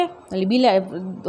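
normal talking voice

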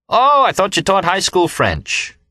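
slow, high mocking sneer; a rude, drawn-out taunting retort; deliberately rude. A narrator's reading. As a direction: drag it out to needle him. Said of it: "He was being deliberately rude".

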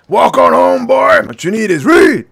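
tough guy voice. Acted. Quoted tough guy line.

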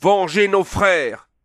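cri très haut, lent, étiré; hurlement de vengeance. Acted. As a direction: clamer la vengeance à pleine voix. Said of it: "hurlèrent-ils". (la troupe hurle sa vengeance contre Conan)

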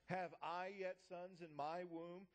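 "I" drawn out and punched; stress on I. Acted. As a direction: lean hard on the word "I". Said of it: "I emphasize the word".

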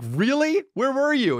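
high, disbelieving retold question; mock disbelief; incredulous. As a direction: press Dad for an explanation. Grills Dad in disbelief.

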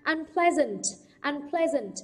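"unpleasant" stressed on PLEA; second-syllable stress. Shown as a demonstration. Teacher modelling prefix stress, "unpleasant" stressed on PLEA. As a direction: keep "un" light and lean on PLEA in "unpleasant". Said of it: "trọng âm sẽ rơi vào âm tiết thứ hai".

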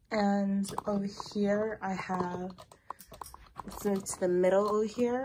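a little winded, rushing the words; talking while short of breath. Real, not acted. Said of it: "I'm, like, running out of breath".

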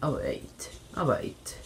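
whisper. Real, not acted. Sneaking, spotted by neighbor.

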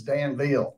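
"Danville" ending in a clear "veel"; careful Southern pronunciation. Retold or imitated. Alabama native teasing the careful cast, "Danville" as Dan-veel. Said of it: "Y'all were very careful it was Danville".

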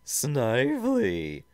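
loud, high, drawn-out villain's roar. Acted. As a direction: roar for the underling, stretching the name. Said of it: "deep and ominous voice roared".

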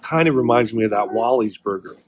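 chewing while talking; speaking through a bite; mouth full. Real, not acted. Seen 1: Bites burger at -2.0; mouth moves as if chewing while speaking.

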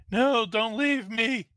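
high, loud, drawn-out acted plea; pleading cry. Game master voices fallen fighter to fleeing men, pleading. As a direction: call out slowly in mock desperation. Wounded enemy calls after fleeing comrades.

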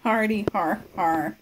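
deadpan fake laughter; spoken "har har" at a lame joke; unamused, spelled-out laugh; sarcastic mock laugh. Real, not acted.

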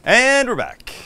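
loud, high-pitched return to the show; show-host announcement. Acted. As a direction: announce it big, drawing out the first word. Loudly re-announces the return on camera.

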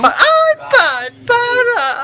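very high, loud scandalized cry; shocked protest. Real, not acted. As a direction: squeal in shocked embarrassment. Shocked by a crude joke.

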